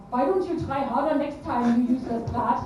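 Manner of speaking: scolding in a put-on German accent; mildly berate, keeping the German accent; bad German accent. Mother's hidden criticism translated, scolding German accent. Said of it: "sorry about that German accent".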